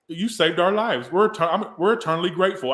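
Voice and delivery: high, loud little alien voice; Toy Story aliens. Acted. Quoting aliens thanking the Potato Heads, little alien voice. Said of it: "those little alien things were saying".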